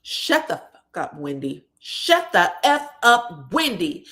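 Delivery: mother screaming at her daughter to shut up, mock yell; retold scream. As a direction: bark it out, imitating an angry mother. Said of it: "her mother screams out".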